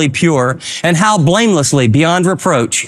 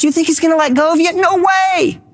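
incredulous no way; 9 semitones higher than usual. Acted. Rhetorical reassurance to doubters.

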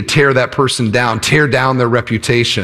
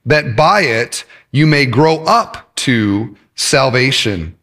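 slow, measured Bible reading; scripture reading; slower than usual. Acted. Pastor reading Peter's letter to the congregation, slow and measured. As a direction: read the verse out slowly, pausing between phrases.

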